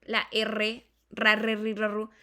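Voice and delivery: "ra, re, ri, ra, ru" with strong trills; rolled R. Shown as a demonstration. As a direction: roll each R in "ra, re, ri, ra, ru". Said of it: "Nosotros utilizamos".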